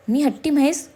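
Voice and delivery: playfully offended; mock indignant. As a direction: raise 'हट्टी म्हैस' into a playful offended question. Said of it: "भोया उंचावत विचारलं".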